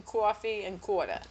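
Long Island "coffee and quarter"; Long Island accent. Shown as a demonstration. Explaining telltale words to friend, Long Island accent on "coffee and quarter". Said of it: "The first thing you drop when you move".

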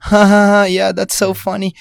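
high-pitched fake nervous laughter; imitated nervous laugh. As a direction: mimic an awkward, forced laugh of politeness. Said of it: "like, nervous laugh".

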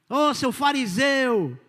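slow, drawn-out mocking jab; mock insult. Pastor mimicking believers name-calling, slow and mocking. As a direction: stretch it out like a playground taunt.

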